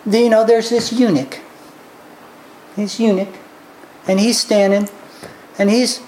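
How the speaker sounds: usual speaking voice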